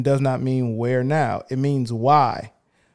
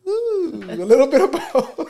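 high, loud laughing echo; laughing tease; 12 semitones higher, 6 dB louder than usual. Real, not acted. Host echoing the guest's answer with a high laughing tease. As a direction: laugh as you echo her.

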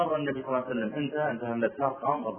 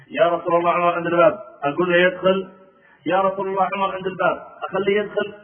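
louder, repeated pleading; pleading servant; 3 semitones higher, 5 dB louder than usual. Retold or imitated. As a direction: ask again and again at the door. Boy repeats request.

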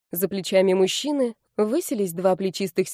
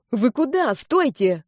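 higher, mildly cross call; angry protest; 4 semitones higher, slower than usual. A narrator's reading. Girl abandoned by fleeing friends, crossly. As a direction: call after them in annoyance. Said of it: "рассердилась я".

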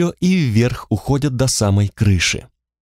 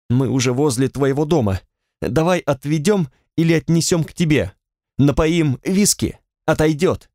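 panicky; 3 semitones higher than usual. Acted. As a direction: talk her round in panic. Panicked man schemes to hide crash.

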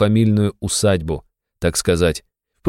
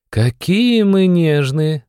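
high, slow, eye-rolling sneer; mocking; 10 semitones higher, much slower than usual. A narrator's reading. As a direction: drawl it out with a scornful roll. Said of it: "закатила глаза Эмма".

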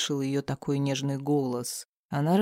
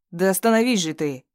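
louder insistent yell of остановись; assistant's yell; 3 semitones higher, 5 dB louder than usual. Acted. Assistant dragging hero off, mild yell. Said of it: "заорал помощник".

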